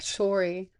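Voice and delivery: "sorry" with a rounded OR vowel; J J's "sorry". Retold or imitated. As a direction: imitate someone saying "sorry" as SORE-ee. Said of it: "that's how J J says it".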